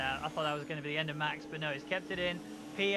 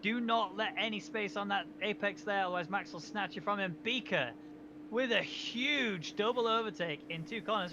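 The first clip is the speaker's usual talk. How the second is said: excited commentary; 3 semitones higher than usual. Real, not acted. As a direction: call the move as it happens. Excited call of the overtake.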